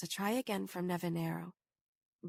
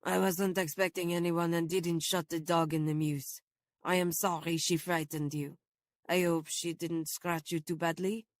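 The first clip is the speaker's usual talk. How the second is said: deferential; 3 semitones lower than usual. Acted. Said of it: "his voice turning suddenly deferential".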